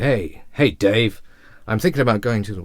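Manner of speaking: loud, punchy greeting; strong opener. Shown as a demonstration. Speaking to Dave, coming in strong and loud. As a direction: come in really strong on it. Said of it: "if you came in really strong".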